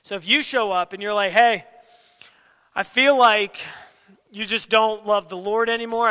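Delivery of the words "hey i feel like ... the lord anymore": loud accusing. Retold or imitated. Confronting friend with accusations.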